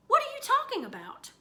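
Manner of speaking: high, exasperated demand; mother losing patience with Fudge. Acted.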